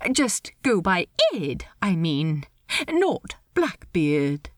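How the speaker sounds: high, lilting, polite voice; awkward host in a high register; Steed, politely awkward. Acted. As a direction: pitch it high, hesitate politely. Steed advises Ed.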